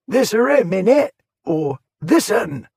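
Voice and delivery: high, loud cockney shout; rough shout. A narrator's reading. A ragged fiend shouting at Warbury, loud jeering. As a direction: jeer at him through the window. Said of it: "and shouting".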